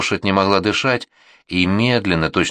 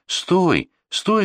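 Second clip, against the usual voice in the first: much higher commanding yells; calling out; 11 semitones higher than usual. A narrator's reading. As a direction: shout the sleighs to a halt. Stopping oncoming sleighs.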